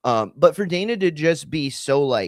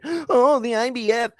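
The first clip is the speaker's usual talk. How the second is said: high shocked mock outrage; pearl clutching; 8 semitones higher than usual. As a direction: parody a scandalized fan clutching pearls. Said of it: "his pearl clutching".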